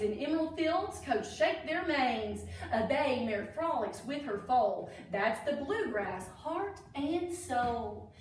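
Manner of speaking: sing-song rhyme read aloud; reading to children. A narrator's reading. Teacher reading a Derby rhyme book to kids, sing-song. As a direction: read the verse like a storybook.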